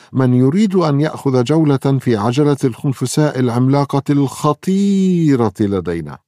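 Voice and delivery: mock eerie carnival barker; spooky welcome. A narrator's reading. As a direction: spook the kids playfully. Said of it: "ترحب ناتاشا بصوت مخيف".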